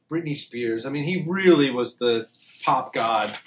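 talking around a cigar; cigar in mouth. Real, not acted. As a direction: lips gripping a cigar. Seen 0: Left man talking with cigar clenched in mouth throughout.

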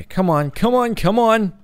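high, eager come-on; egging the game on, voice jumping up; excited urging. Real, not acted. Gamer urging the lagging game along, eager and high.

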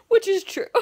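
high, loud, breaking into laughter; high-pitched laughing remark; laughing aside. Real, not acted. Laughing agreement.

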